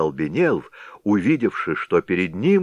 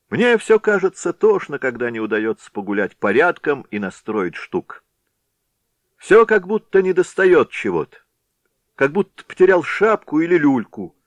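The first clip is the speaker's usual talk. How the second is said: reveller's voice; 8 semitones higher, 5 dB louder than usual. A narrator's reading. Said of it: "первым гулякой".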